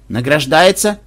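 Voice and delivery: startled, rising question; a jolt of mock surprise; surprised. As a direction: caught off guard by yet another medal. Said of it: "удивлённо встрепенулся".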